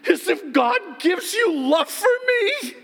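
high, loud, tearful wounded wife; wife to husband, high tearful hurt outrage. Retold or imitated. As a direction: voice the offended wife close to tears. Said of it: "she's looking at me like".

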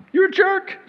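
You're a jerk, jumping high; mock blunt rebuke. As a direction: blurt it out in jest. Pretend loving rebuke.

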